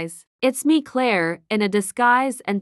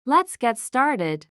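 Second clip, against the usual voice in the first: slow sinister start; 2 semitones higher, slower than usual. Acted.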